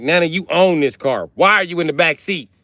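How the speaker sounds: high, loud disbelieving question to nana; incredulous question. Retold or imitated. Grandson asking nana why she sits in back, incredulous. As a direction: ask it like you can't believe it.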